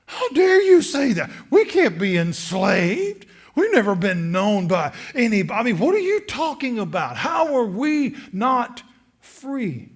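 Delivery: loud, high indignant retort; defensive retort. Acted. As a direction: bristle back at an accuser. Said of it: "a defensive tone".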